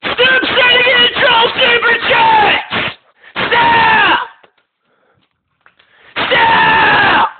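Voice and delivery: high, slow shouting at the trolls; furious shout. Real, not acted. Host shouts at chat to stop the troll super chats, yelling.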